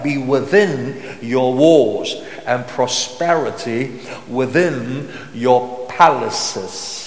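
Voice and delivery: slow, weighty psalm reading; drawn-out key words, deliberate pauses; scripture reading. Acted. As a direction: proclaim the verse slowly to a congregation. Reads psalm aloud to congregation.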